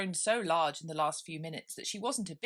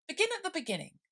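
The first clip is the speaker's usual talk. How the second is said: grave king; 13 semitones higher, faster than usual. Acted. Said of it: "the king said gravely".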